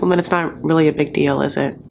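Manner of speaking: understated dry retort, sinking at the end. Retold or imitated. She questions Benjamin about drinking, dry imitation. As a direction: toss it off drily, imitating her. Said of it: "She says it so dryly".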